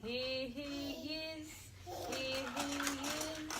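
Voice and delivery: slow sing-song hiding game; reading to a toddler. Acted. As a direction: draw it out playfully for a child. Hide and seek with puppets.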